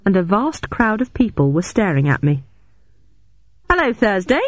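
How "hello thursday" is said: Lydia voice. A narrator's reading. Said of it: "said a familiar voice".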